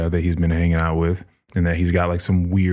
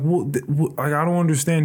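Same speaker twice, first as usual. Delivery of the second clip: higher, stammering confusion; confused pilot; 7 semitones higher than usual. Retold or imitated. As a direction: fumble for words, lost. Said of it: "He's like".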